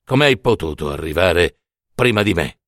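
very low, measured figure of Death; Death's voice. Acted. Death questions the mother who got there first, deep and grave. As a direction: speak as Death, deep and unhurried.

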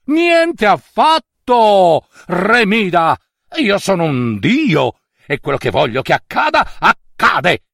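lofty god speaking grandly; a proud god granting a wish; solemn divine pronouncement; Dionysus, god voice. Acted.

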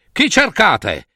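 high-pitched questioning call; mild storybook yell; shouted challenge. Acted. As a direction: demand to know their business. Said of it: "urlò una voce".

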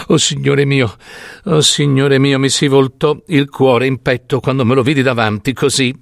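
lightly voiced anguished old storyteller; an old woman insisting on what she saw; distressed old peasant woman. Old peasant woman confiding horrors to the doctor, distressed.

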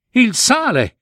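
il re grida "Il sale!" con gioia, voce molto più alta; "Il sale!" esclamato con gioia crescente, voce alta; esclamazione felice. A narrator's reading. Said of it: "esclamò felice il re". (il re ritrova il sale e grida "Il sale!" felice, voce alta)

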